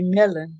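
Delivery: "Melon" said like the fruit; mispronounced name. Retold or imitated. Showing how people get her name wrong, mispronounced "Melon". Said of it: "and then some people".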